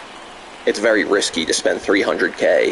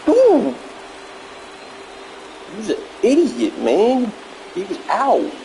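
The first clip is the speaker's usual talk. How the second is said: outraged; 11 semitones higher, slower than usual. Real, not acted. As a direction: shout at the screen in disbelief. Outraged at a bad play.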